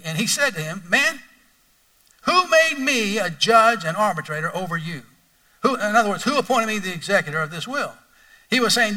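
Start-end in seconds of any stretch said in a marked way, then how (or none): 0.9-5.0 a touch of irritation, pitched up on Man; mildly exasperated rebuke; Jesus, annoyed at the interruption, lightly ticked off. Acted. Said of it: "he's ticked".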